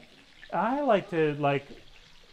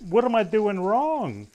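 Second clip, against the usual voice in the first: a son begging his father for help; pleading to dad; 6 semitones higher, slower than usual. Retold or imitated. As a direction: mock-desperate plea. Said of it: "I'm like".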